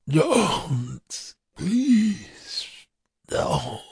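high, weak moaning plea. Acted. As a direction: beg weakly, moaning. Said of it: "the man moaned".

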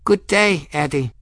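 high, warm hello; fond, lifted greeting. A narrator's reading. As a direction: greet a familiar friend warmly. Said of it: "her voice warm".

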